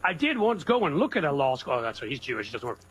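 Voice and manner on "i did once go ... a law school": lightly put-on Southern accent. Quoting Mark Twain for laughs, mock Southern accent. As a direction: imitate a Southern storyteller's accent. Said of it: "I just like doing my Southern accent so much".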